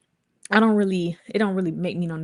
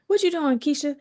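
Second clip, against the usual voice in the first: imitating mom; 9 semitones higher than usual. Mom on the phone, retold.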